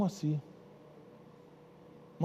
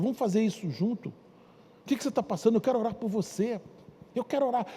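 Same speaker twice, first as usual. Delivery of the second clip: inviting friend. Acted. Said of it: "é outro tipo de gente".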